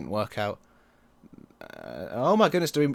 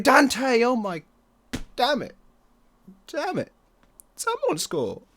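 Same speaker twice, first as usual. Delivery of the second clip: frustrated yell; 13 semitones higher, 6 dB louder, slower than usual. Real, not acted. Near miss, frustrated yelling.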